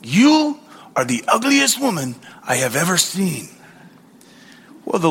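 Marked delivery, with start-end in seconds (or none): 0.0-3.5 a lightly voiced parrot, matter-of-fact; hint of a squawky bird delivering an insult. Parrot insults a passing woman, lightly voiced. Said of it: "a parrot looked at her ... and said".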